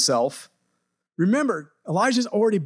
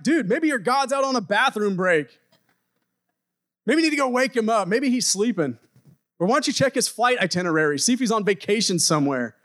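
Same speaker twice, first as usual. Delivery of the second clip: higher, teasing taunt; mocking; 4 semitones higher than usual. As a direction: needle them like a smug kid. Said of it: "Elijah began mocking them".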